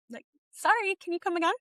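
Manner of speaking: high, bewildered asking it again; a mother who can't believe the doctor; stunned disbelief. Retold or imitated. Doctor just said no heartbeat, she asks again in high-pitched shock.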